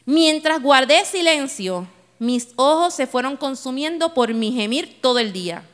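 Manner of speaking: reading a psalm as David. Acted. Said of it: "como si David estuviera hablando".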